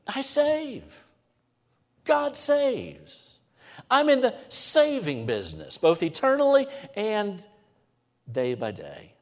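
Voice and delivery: high, bold proclamation as God. Retold or imitated. Preacher voices God promising to save, exultant. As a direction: announce it as God himself. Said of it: "he just says to us".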